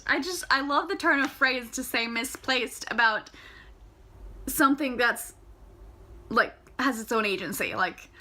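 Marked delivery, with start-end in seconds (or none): none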